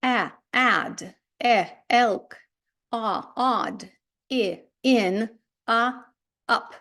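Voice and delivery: short American vowel sounds in "ад", "елк", "ін", "ап"; teacher demonstrating short vowels, one by one; short English vowels. Shown as a demonstration. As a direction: sound out each short vowel, then its example word. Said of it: "ці літери дають нам отакі звуки".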